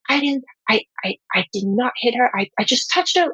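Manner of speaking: a lightly voiced high, pleading child; defensive little girl. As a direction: imitate a small kid denying she did it. Mother voices defensive little daughter.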